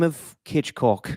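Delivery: slow mock Cockney; Butcher. Host finishing his Butcher impression, slow mock Cockney. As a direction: land it slowly in put-on Cockney. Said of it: "He uses a Cockney accent".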